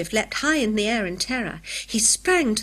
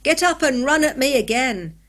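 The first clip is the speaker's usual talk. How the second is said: taunting; 4 semitones higher, 5 dB louder than usual. A narrator's reading. Jeremiah taunting fallen rival.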